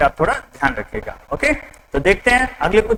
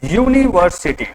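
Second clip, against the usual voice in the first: slow sounding-out. Shown as a demonstration. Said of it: "क्या लिख दिया डियर स्टूडेंट्स".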